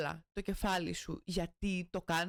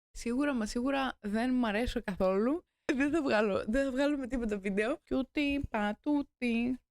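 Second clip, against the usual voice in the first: louder, playful grumbling to herself; loud self-mocking; 5 dB louder than usual. Real, not acted. Loud teasing rant to herself between takes. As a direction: she mocks herself loudly between takes.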